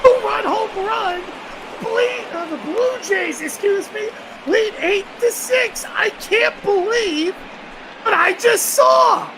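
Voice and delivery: high, slow, stunned home run call; panting shaky eyewitness. Real, not acted. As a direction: shout it in disbelief, stretched out. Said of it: "Excellent call there".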